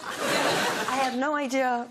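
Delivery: baffled, laughing confession; laughing while talking. Real, not acted. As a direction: laugh through the words.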